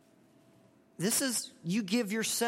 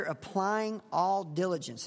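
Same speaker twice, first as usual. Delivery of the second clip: applying all diligence, slow with weight on applying; stressed key phrase; slower than usual. Shown as a demonstration. Preacher isolating the phrase for his listeners, slow and stressed. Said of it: "the emphasis and stress".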